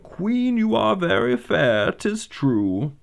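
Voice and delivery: high, slow, mystical mirror voice; an enchanted mirror intoning; shimmering echoing mirror voice. Acted. Magic mirror answers.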